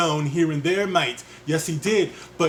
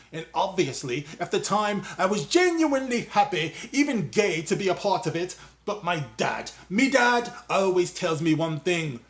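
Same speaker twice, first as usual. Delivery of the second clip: loose mock British accent, quoting Boyega; a hint of London 'mate' British accent; put-on British accent. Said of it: "I don't know what accent I'm doing now".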